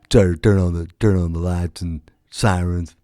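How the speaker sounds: swagger like a cop swapping road stories; mock Oregon cop. An imagined Oregon cop brags to buddies, a hint of redneck swagger.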